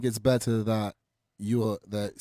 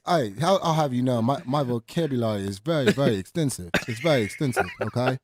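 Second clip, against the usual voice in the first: mock indignant; 4 semitones higher, 3 dB louder than usual. Mock-defensive in interviewer act.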